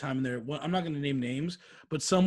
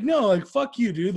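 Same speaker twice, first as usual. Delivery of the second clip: heated retort; 4 semitones higher, 5 dB louder, slower than usual. Retold or imitated. Heated retort in retold quarrel.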